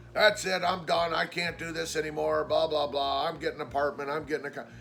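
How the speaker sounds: mock fed-up rant. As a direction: parody his empty threats to leave. Mocking Rob's repeated threats.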